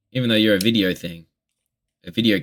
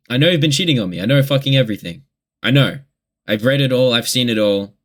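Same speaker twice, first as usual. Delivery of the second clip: mildly heated accusation, pitch raised; retold confrontation; 3 semitones higher, faster than usual. Confronting girlfriend about cheating, mildly heated retelling. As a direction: re-enact confronting a cheater, firm and insistent.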